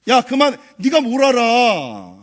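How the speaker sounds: slowed, belittling parental scolding; annoyed, dismissive. Retold or imitated. Parent silencing a child, slow and dismissive. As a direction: shut the child down, slowly and with contempt. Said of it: "아이들을 무시하고 감정을 무시하는 말".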